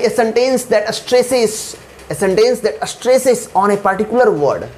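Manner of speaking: slow, deliberate dictation; slow definition read. Shown as a demonstration. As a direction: spell it out slowly for copying. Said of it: "teacher reads definition slowly". (धीमे-धीमे बोलकर)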